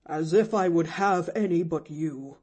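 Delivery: a lightly voiced indignant old man; mildly resentful retort; lonely old man, hurt and indignant. A narrator's reading. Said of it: "resented an indignant voice".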